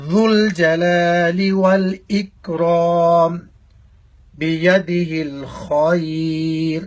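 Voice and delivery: slow, measured Arabic recitation. Shown as a demonstration. Teacher reciting the kalima for students, slow measured recitation. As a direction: recite each phrase slowly and deliberately.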